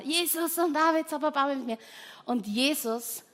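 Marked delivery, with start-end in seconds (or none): 0.0-1.9 high calling cry, a little less loud; keeps screaming. Acted. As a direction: cry out again for mercy. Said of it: "er schreit weiter".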